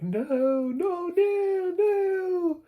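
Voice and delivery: very high, drawn-out mock wail; loud, squealed background noise; imitated crowd cries. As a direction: wail it like a distant crowd of spectators. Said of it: "where the crowd is, like, cheering".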